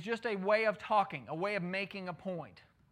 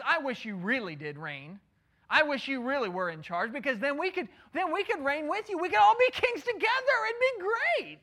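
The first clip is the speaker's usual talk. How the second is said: climbing higher and louder into mock praise; sarcastic; 6 semitones higher, 6 dB louder than usual. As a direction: build the sarcasm until it peaks high. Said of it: "It's sarcasm".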